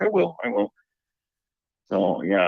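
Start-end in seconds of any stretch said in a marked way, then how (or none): 0.0-0.7 imitating sister. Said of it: "And she's like".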